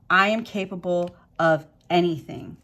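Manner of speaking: firm, declared affirmation. Shown as a demonstration. Reader modeling an affirmation for Pisces viewers, firm and declaring. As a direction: proclaim it like a personal vow. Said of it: "Say it, Pisces".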